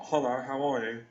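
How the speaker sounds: low, smooth ladies' man hello; a hint of a suave pickup voice; sexy cool voice.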